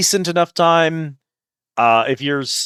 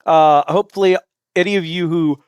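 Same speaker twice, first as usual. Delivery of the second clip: yawning; 2 semitones higher than usual. Real, not acted. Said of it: "forgive my yawning".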